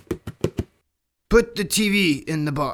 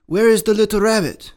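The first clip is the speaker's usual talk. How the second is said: tiger voice; 5 semitones higher, 6 dB louder, faster than usual. Acted. Tiger asks for rabbit.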